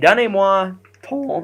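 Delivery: high voice crack breaking mid-phrase. Talking to viewers while playing a game, voice cracking. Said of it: "that was a really bad voice crack".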